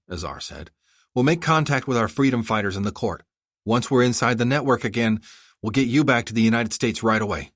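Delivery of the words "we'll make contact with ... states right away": lightly voiced young woman, higher; a hint of a determined princess.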